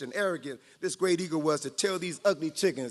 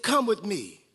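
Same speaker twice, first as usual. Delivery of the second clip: power and authority; slower than usual. Acted. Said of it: "spoke with power and authority".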